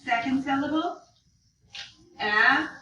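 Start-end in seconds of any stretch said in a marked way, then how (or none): 2.2-2.7 very slow letters with long gaps. Shown as a demonstration. Teacher leading class spelling it back, slow. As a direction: stretch out "F O L D" one by one. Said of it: "Okay, spell it back".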